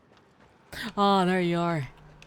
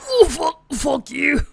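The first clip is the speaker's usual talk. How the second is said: furious yell, much higher; angry shout; 11 semitones higher, 12 dB louder than usual. Real, not acted. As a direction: yell it out in frustration. Killed in game, yelling.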